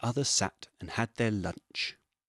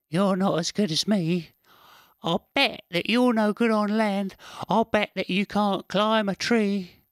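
high, loud boastful squirrel voice; sneering squirrel; 11 semitones higher, 6 dB louder than usual. Acted. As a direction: taunt the fish from the bank, full of himself. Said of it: "he sneered".

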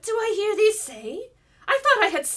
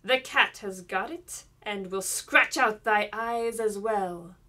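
mocking; 8 dB louder than usual. A narrator's reading. Enchantress taunts the king's son at the window, loud mocking. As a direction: taunt him, savouring every word. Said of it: "she cried mockingly".

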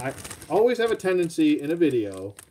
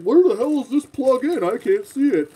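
retold frustration; 9 semitones higher, 5 dB louder than usual. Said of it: "I was like".

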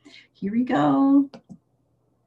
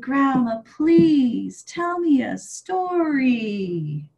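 drawn-out whiny please, higher; a little chick begging once more; slow pleading child; 3 semitones higher, much slower than usual. Acted. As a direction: stretch the begging out slowly. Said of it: "Again, he said".

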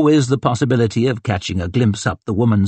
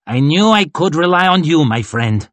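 hearty warmth; 5 semitones higher, 3 dB louder than usual. A narrator's reading. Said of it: "He slapped Glocta warmly on the arm".

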